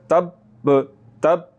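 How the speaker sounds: "तब" as "tab", held, then "ba"; held doubled b. Shown as a demonstration. Teacher demonstrates shadda, breath stopped on तब. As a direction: hold b in "तब" and release a second b. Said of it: "सांस थोड़ा सा रुकेगा".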